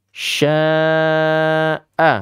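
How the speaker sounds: Sya'a with the sh hissed out long and spread wide. Shown as a demonstration. Quran teacher showing kids tafasyi, drawn-out sh. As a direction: let the sh of Sya'a spread and linger. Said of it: "Harus menyebar dan meluas ya".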